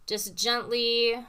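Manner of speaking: slow soothing teacher demo; gently. Shown as a demonstration. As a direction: ease the words out gently and slowly. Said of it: "think of portato as a rain gently tapping".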